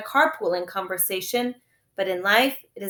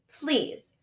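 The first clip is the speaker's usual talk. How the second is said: gently; 5 semitones higher, 4 dB quieter than usual. Acted. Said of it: "Mister Poe said gently".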